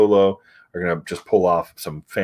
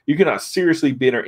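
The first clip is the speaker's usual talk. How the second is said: mock outraged order; 5 semitones higher than usual. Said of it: "He's like".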